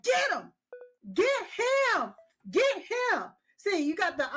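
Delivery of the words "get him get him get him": cheering him on. Retold or imitated. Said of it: "I was like".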